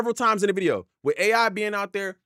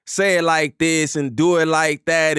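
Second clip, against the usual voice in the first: louder, firm coaching; producer instructions; 3 semitones lower, 4 dB louder than usual. Retold or imitated. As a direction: tell the artist how to say it. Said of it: "they go".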